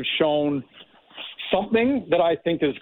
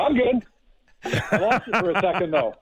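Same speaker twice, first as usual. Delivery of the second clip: laughing; 4 semitones higher than usual. Real, not acted. Laughing after losing connection.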